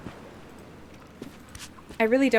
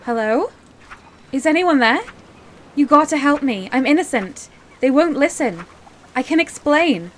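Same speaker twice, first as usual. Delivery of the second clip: pleading prisoner; 5 semitones higher, 7 dB louder than usual. Acted.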